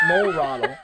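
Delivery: high squeal through laughter; laughing shout. Real, not acted. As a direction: shout it, cracking up. Laughs through a silly name.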